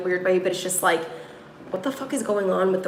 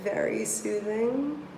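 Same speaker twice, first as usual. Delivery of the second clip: soothing; slower than usual. Real, not acted. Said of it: "shuffling cards, calm".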